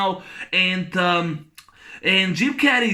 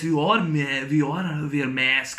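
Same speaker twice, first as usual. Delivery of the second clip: imitating the doctor; 4 semitones lower than usual. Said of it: "he imitates, you know, Doctor".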